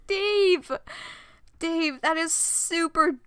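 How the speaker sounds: loud, high exclamation of dismay; dismayed outcry. Real, not acted. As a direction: cry out the name, appalled. Reader scolds character in dismay.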